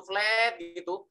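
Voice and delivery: sustained level "flat", drawn out; flat intonation. Shown as a demonstration. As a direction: hold "flat" on one unchanging note. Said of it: "kalau flat terus gitu".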